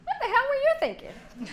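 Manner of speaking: high, loud mock taunt; woman teasing a friend, high and mocking; catty remark. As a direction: needle her playfully. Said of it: "and Jackie says".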